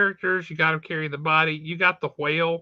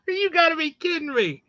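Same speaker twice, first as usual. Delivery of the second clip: exasperated disbelief; 10 semitones higher than usual. Real, not acted. Disbelief at comic plot.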